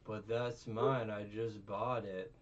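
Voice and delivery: slow, petulant whine; whiny noble. Retold or imitated. Noble claiming the mermaid, slow whining. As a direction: drag it out like a spoiled child. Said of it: "he's like".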